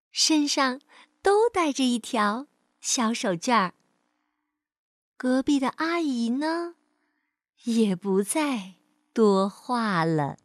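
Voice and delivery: measured, expressive storyteller voice; children's story narration. Acted. Teacher reads a picture-book story to children, storytelling. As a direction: tell it to a small child.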